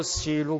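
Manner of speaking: 西鲁 said as a Japanese-style silver; Japanese-style loanword. Retold or imitated. Pastor imitates professor's Japanese-style silver. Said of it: "银是怎么样呢？silver".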